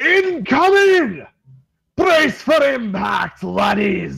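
very high-pitched, drawn-out, loud shouting. Voicing a ship's captain warning his men of a swell: captain shouting orders. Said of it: "he shouts at his men".

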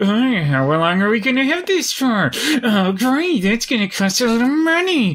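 high, strained delivery through clenched teeth. Describing how a show character talks her lines: imitating Piper through gritted teeth. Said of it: "talking all these lines like through her teeth".

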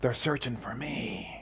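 mock whispering child voice. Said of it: "the voice says".

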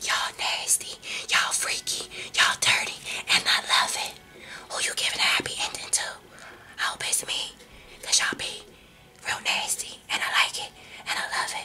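quiet whispering. Telling listeners secrets about their nasty side, whispering. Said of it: "I'ma stop whispering".

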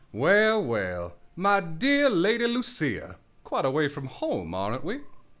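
genteel Southern gentleman drawl, drawn-out well. Voicing the southern gentleman character the group asked for: southern american accent. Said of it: "A southern gentleman".

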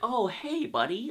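hushed, quiet, soft villain-style voice. Imitating an actor's low Joker voice from the episode: low Joker voice. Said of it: "when you go into that low".

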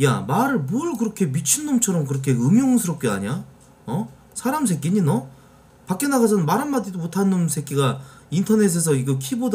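high, wide, rising scolding rant.

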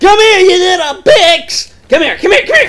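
yelling loudly. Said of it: "I am really warm from screaming so much".

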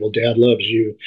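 normal talking voice

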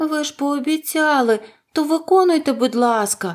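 exclaiming, voice lifted. Reading a story, Dorothy speaks to the wizard after her friends, exclaiming. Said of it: "вигукнула Дороті".

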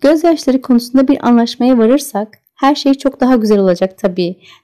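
ordinary delivery

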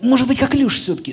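put-on hopeful voice. Imitating how someone asks a question, in a mock-hopeful tone. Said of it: "с таким тоном, как будто с такой надеждой в голосе".

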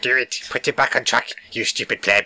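small, faintly menacing, slightly scary inner voice. Voicing the producer in his head, in a littler, slightly scarier voice. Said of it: "It's just me in a littler voice, slightly scarier".

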